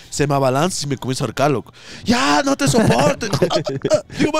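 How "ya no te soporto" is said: high, slow mock outburst; exasperated mother, imitated. Mother choking daughter, high exasperated imitation. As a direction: stretch it high, mimicking someone fed up.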